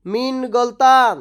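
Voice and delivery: মিন গলতান slow and clear; slow repeat. Shown as a demonstration. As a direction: say মিন গলতান slowly so learners can follow. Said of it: "এর আরবি হবে". (ধীরে স্পষ্ট উচ্চারণ)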